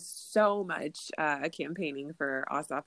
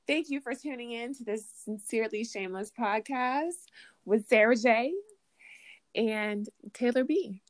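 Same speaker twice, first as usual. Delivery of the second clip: lightly put-on podcast sign-off, a bit higher; a hint of cheesy radio host, slowing on the last name; fake-it sign-off voice; 4 semitones higher than usual. Guest fakes a sign-off for host and herself, lightly put-on announcer voice. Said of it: "give us your best fake it till you make it".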